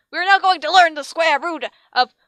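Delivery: villain teacher rambling. Acted. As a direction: drone through the numbers.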